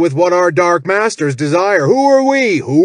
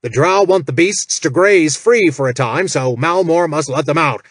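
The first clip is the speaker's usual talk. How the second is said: loud, higher, fast furious bellow; 5 semitones higher, 5 dB louder than usual. Acted. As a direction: roar it like an outraged boss. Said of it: "Jack bellowed".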